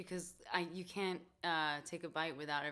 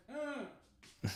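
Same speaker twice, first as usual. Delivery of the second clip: imitated muffled yell; 8 semitones higher than usual. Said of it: "I just heard".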